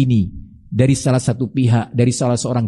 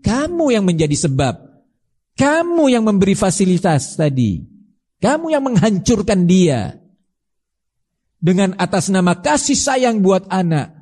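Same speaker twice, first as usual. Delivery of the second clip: stern rebuke; 4 semitones higher than usual. Acted. Preacher acts scolding indulgent parents.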